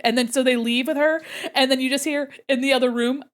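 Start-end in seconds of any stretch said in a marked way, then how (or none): none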